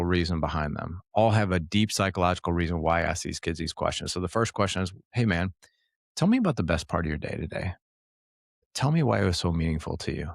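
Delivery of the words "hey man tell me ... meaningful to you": gentle, slower. Shown as a demonstration. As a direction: ease into it, gentle and unhurried, a safe space for the kid. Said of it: "notice even the tone, It's gentle. It's a little bit slower".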